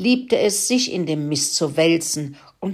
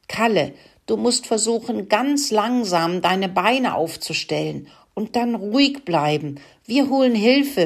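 lightly higher rat voice; squeaking rat; 4 semitones higher than usual. Acted. Rat reassuring the stuck pig, a light squeak. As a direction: urge calmly, then squeak the promise. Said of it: "fiebte Rudi".

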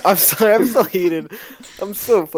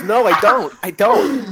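mock yelled refusal; 5 semitones higher, slower than usual. Refusing the friend's video, yelled sing-song. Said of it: "And it's".

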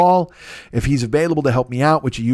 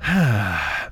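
long heavy exhale, lower and softer; weary sigh; 7 semitones lower, 3 dB quieter than usual. Retold or imitated. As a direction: let out a tired sigh at the next week's work. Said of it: "And then I go".

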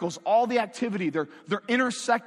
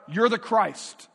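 slow, deliberate exclamation, a touch louder; bursting out; 2 semitones higher, 4 dB louder, slower than usual. Acted. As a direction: let it burst out as sudden recognition. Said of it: "he just bursts out".

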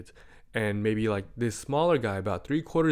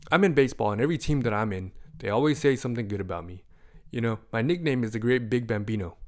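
put-on proud kid, louder and rushing; bragging kid; 6 dB louder, faster than usual. Boy boasting about his nickname, proud kid. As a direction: puff up like a boastful little kid.

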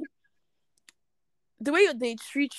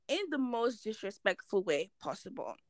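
whispering; whispered aside; 9 dB quieter than usual. Real, not acted. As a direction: whisper it sideways. Unvoiced aside.

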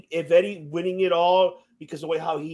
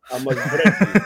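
Ivan Drago; 3 semitones lower, 4 dB louder than usual. Retold or imitated. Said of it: "the female version of Ivan Drago".

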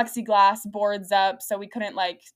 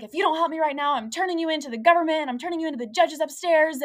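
higher-pitched mock threats; indignant rant, hammed up slightly; retold angry threat; 6 semitones higher than usual. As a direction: imitate an irate client threatening to report someone. Irate client's threats acted out.

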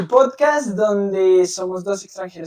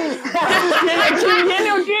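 excited shout; 9 semitones higher, slower than usual. Real, not acted. Excited guest intro.

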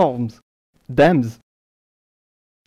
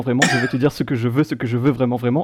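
monotone lyric reading; faster than usual. Pretend. Quizmaster rereads the answer's lyrics to players, monotone. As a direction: run the lyrics together deadpan. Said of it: "vous les lire de manière un peu monotone".

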